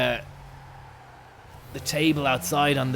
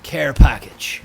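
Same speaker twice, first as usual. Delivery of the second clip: announcer call; 12 dB louder, slower than usual. Acted. Announcing the drone drop.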